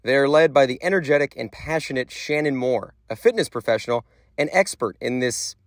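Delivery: measured reporter narration; news voiceover. Acted. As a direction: read it like a TV news package.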